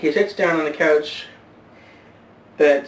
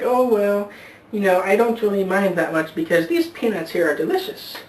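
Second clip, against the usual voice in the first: put-on old woman voice; 5 semitones higher than usual.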